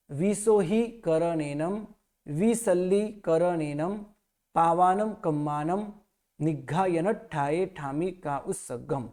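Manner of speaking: slow chanted prayer recitation; slow measured prayer chant; sutra recitation. Shown as a demonstration. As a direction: recite the sutra slowly and evenly.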